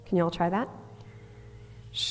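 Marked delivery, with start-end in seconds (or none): 1.9-2.1 a soft steady shh; shh demo. Shown as a demonstration. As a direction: breathe out on a gentle shh. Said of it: "we're gonna first start with a shh".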